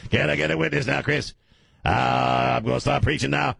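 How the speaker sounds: radio preacher calling for a witness; Pastor Ray Brown. Retold or imitated. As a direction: start working up the congregation. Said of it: "This is how he talks".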